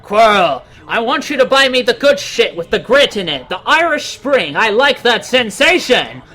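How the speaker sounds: lightly voiced demanding dark lord; a hint of a pampered villain; Voldemort voice. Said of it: "do you think he demanded".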